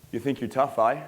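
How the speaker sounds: lightly played Aussie challenge; Australian accent. Bar local challenges the teller's friend, light Australian accent. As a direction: size him up with a touch of Australian. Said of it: "ridiculous Australian accent".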